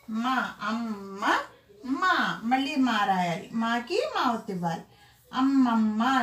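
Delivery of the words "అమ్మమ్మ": అమ్మమ్మ with each double మ held firmly; doubled మ pressed. Shown as a demonstration. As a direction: lean hard on the double మ sounds in అమ్మమ్మ. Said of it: "నొక్కి పలకాలన్నమాట".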